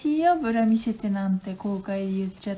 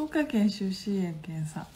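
whisper; 3 semitones lower than usual. Real, not acted. Aside about her dialect.

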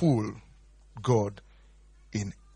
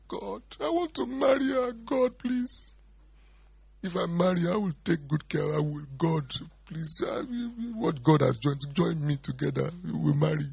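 high mock pleading to God; lightly played begging lover; pleading prayer; 5 semitones higher than usual. Praying to God to marry her, high pleading.

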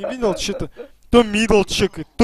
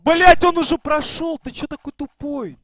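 yelling; 7 semitones higher, 3 dB quieter than usual. Real, not acted. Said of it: "Нет, ну ты орёшь".

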